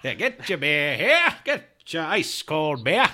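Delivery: loud, high vendor call; stadium vendor hawking. Pretend. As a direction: bellow it across the stands. Playing a stadium beer vendor.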